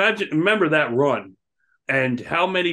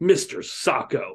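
put-on annoyed voice, much lower pitch; 3 semitones lower, 4 dB quieter than usual. Retelling McMahon's reaction on camera: mock-annoyed McMahon impression. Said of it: "he's so annoyed by it".

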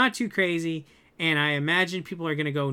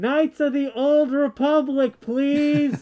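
very high scream, muffled as if into pillow; 9 semitones higher, 6 dB louder than usual. Star Wars fan pleads to Disney executives, screaming into a pillow. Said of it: "I'm screaming into a pillow".

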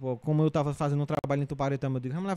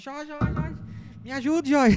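mock frantic, very high, desperate shout; 12 semitones higher than usual. Retelling running for help with a butterfly in the ear: retelling a desperate shout. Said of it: "Aí eu saí gritando".

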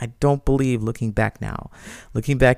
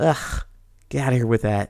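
annoyed, disliking, irritated tone. Dismissing an excuse people use to avoid accountability: annoyed, disliking tone. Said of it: "by the tone of my voice, I really dislike that".

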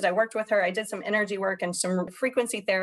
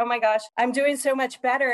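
usual speaking voice

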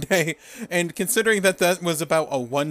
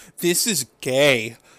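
mock disgusted voice, at a lower pitch; 4 semitones lower than usual. Retelling how the women reacted to the posing: imitating disgust. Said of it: "Stacy acting disgusted".

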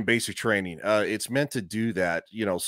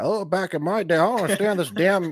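put-on old man impression, higher and louder; 10 semitones higher, 4 dB louder than usual. Describing what you hear from older people: imitating an old guy. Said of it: "you hear the old, the old guy".

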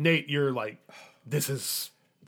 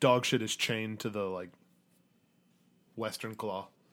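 ordinary talk

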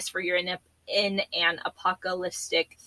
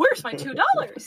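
very high, cartoon-style mouse voice; 12 semitones higher, 4 dB louder than usual. Repeating the other speaker's line as a joke: Mickey Mouse voice. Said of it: "that's my Mickey Mouse impersonation".

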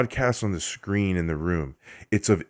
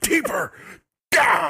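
play-acted very high little yelp, squeaked; 9 semitones higher than usual. Recapping a game, speaker mimics Tommy's line: imitating Tommy's yell. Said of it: "He yells that whenever you see the Keeper".

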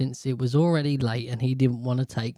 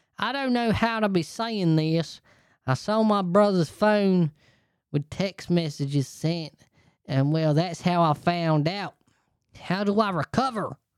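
put-on Texan accent, pitched up; 6 semitones higher than usual. Speaker reading someone's written question aloud, put-on accent for the writer. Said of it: "I should read it in his accent that I've got in my brain".

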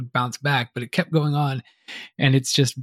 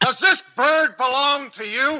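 put-on scream, higher; 12 semitones higher than usual. Quoting a movie's police officer who yells the line: imitating a screaming police officer. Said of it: "She screams at the top of her lungs".

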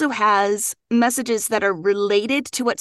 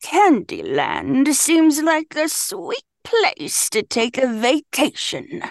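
very drawn-out, slow, swooping, sinister grandma voice; 4 semitones higher than usual. Playing an accent game, saying the chosen phrase: sinister grandma voice. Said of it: "Your accent today is grandma".

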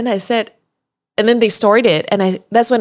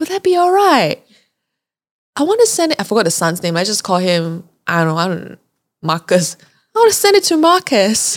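terrible, clumsy, botched put-on Australian accent. Retelling offering Linda a copy, quoting her reply in a bad Australian accent. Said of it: "That's a terrible Australian accent".

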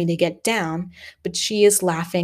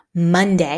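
proud tone. Delia speaks up in the schoolroom, proudly. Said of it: "says Delia proudly".

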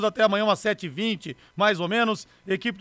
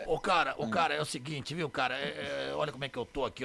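put-on raspy, hoarse voice, lower and quieter; 6 semitones lower, 10 dB quieter than usual. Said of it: "eu tô com essa voz".

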